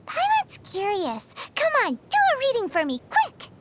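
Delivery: rising, eager and fast; eager pleading. Real, not acted. Paimon begging her friend to read her stars, eagerly.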